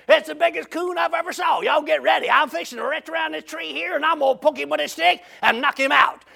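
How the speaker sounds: acted treetop call; retold holler. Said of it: "He hollers down at him".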